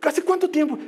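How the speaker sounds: high, shouted plea to Jesus; father yelling that his son is dying; desperate father. Acted. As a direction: cry out like a frantic father. Father pleads desperately in retelling.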